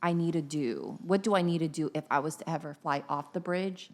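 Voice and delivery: inner voice. Retold or imitated. Friend voicing her bridge-panic thought quietly to herself. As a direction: mutter it to yourself like a worry loop. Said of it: "I always think in my head".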